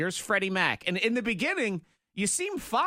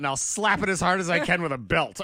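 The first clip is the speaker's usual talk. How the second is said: stern father voice; 5 dB louder than usual. Retold or imitated. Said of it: "very strict father".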